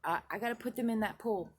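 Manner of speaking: shouting for someone far off; hollering. Retold or imitated. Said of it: "I hollered to somebody in the distance".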